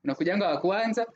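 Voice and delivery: lightly put-on accent in Swahili. Host promising a loyal fan merchandise, put-on Swahili accent. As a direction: slip into a playful Swahili accent, slightly lifted. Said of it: "why that accent just came".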